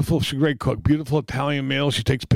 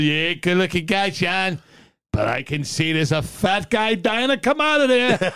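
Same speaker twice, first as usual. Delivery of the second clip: slow, laughing retelling of his line; quoting through laughter; 4 semitones higher than usual. Retold or imitated. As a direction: laugh your way through the quote, slowly. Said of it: "he goes".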